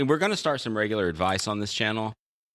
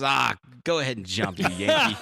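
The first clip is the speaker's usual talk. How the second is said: dismissive punchline; 2 semitones higher than usual. Retold or imitated. Punchline of a joke.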